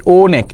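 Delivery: অনেক with its first vowel opened wide; open vowel demo. Shown as a demonstration. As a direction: say অনেক slowly opening the first sound. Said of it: "এরকম ভাবে".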